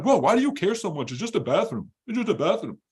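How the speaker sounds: high put-on whine; mock whiny complainer. Mocking miserable people getting defensive: whiny put-on voice. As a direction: imitate the defensive whiner with scorn. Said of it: "they're like".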